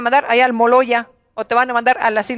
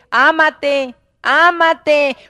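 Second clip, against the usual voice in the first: preacher's exhortation; much slower than usual. Real, not acted.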